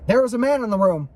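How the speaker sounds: mild narrated scream. A narrator's reading. Narrator voices the frightened little boy, mild scream. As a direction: read it as a panicked child's cry, held back.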